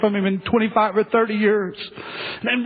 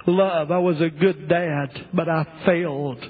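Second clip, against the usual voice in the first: fading lament; 3 semitones lower than usual. Acted. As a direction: let the grief drain the voice away.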